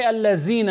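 "الذين" said the wrong way, with a rising tune; common mistake. Shown as a demonstration. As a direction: imitate how many people mispronounce "الذين". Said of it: "as many people may do".

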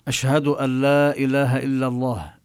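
النون مدغمة في اللام: "أن لا" تُلفظ "ألّا"; idgham demo. Shown as a demonstration. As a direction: shadda on the lam, no nun. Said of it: "يعني إذا قلنا مثلًا". (تُدغم النون في اللام بلا غنة)

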